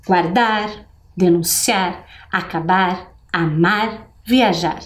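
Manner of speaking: measured teacher-led recital; repeating rhymes together. Shown as a demonstration. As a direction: recite each rhyming word separately. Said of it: "Vamos repetir juntos?".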